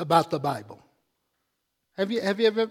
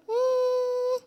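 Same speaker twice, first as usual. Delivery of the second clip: a sly high hum, then a slow, dry verdict; skeptical aside; 4 semitones higher, much slower than usual. Retold or imitated. Preacher mocking his own doubt about the flock. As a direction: tease them with a knowing doubt. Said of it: "But I'm kinda like".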